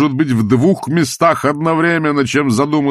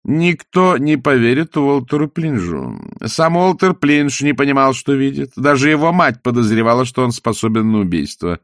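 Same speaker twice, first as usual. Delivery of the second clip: gloating; 4 semitones higher than usual. Acted. Salzella gloating.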